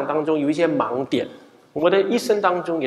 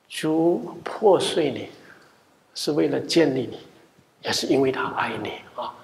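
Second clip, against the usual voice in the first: gentle comfort; 2 semitones lower, 4 dB quieter than usual. Retold or imitated. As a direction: soothe a weeping woman. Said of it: "我就安慰他".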